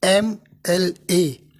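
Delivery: slow "एम एल ए", opening on an e vowel; vowel-initial letter names. Shown as a demonstration. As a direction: say "एम एल ए" slowly, letter by letter. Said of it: "ए से शुरू होता है". ("एम एल ए" धीरे-धीरे, स्वर से शुरू करके)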